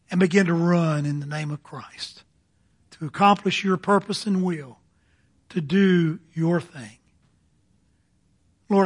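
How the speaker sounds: earnest pulpit prayer voice, measured and steady; closing prayer. Real, not acted. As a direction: pray it aloud for the congregation. Pastor leads closing prayer.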